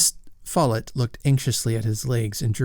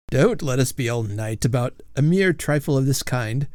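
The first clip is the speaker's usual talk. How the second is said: ironic emphasis; 2 semitones higher than usual. Acted. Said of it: "said Fairfax with ironic emphasis".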